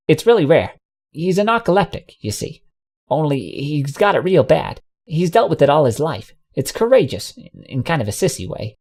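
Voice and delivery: lightly voiced mare telling a scared pony he's fine; lightly voiced folksy mare. Ambrosia's voice.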